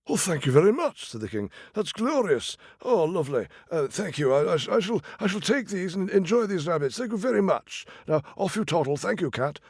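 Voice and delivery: high, fussy royal voice; a delighted old king thanking the cat; pompous king. Acted. King thanking the cat for rabbits, high and delighted.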